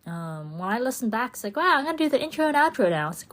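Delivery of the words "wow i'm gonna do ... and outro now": fast, high excited mock exclamation; quick, higher and louder wow; mock surprise. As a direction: gush it like a surprised listener. Imitating listener's surprise.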